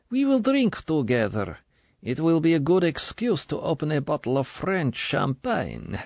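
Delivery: put-on high, honeyed older official's voice; smooth and sugary. A narrator's reading. Colonel coaxing young recruit, smooth and sugary. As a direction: coax her smoothly, like sweet poison. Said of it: "she said smoothly".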